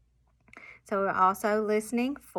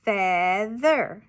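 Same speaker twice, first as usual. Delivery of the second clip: "feather" stretched and louder, with a falling end; whole word, drawn out; 6 dB louder than usual. Shown as a demonstration. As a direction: give "feather" loudly and deliberately. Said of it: "the students would chop it".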